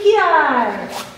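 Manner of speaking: spoken kiai word. Shown as a demonstration. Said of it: "Should never say kiai, that was terrible".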